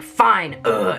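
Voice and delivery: grudging, mildly exasperated acceptance; frustrated witch. Retold or imitated. Witch giving in to Gretel, mildly frustrated. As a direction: give in with a low ugh. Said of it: "The witch is frustrated".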